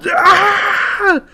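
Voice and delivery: very high cartoon yelp; mock Zim shriek. Mocking a line like Invader Zim, high yelp.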